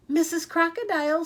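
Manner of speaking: loud high call across the river. A narrator's reading. Katie calling loudly to Missus Crocodile in the river, high.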